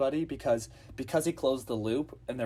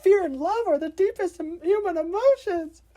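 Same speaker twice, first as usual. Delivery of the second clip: a hammed-up high sermon voice; mock teacher; 8 dB louder than usual. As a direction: preach it like a self-help guru. Preachy teacher quoted from movie.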